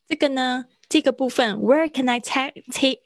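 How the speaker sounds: ordinary talk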